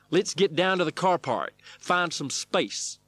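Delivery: high, loud cowboy coach; stunt wrangler. A narrator's reading. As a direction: holler instructions, stretching the words.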